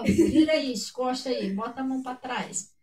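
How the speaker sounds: matter-of-fact arrest instructions; calm police order. Acted. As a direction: give the orders evenly, no shouting. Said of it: "Eles chegam lá".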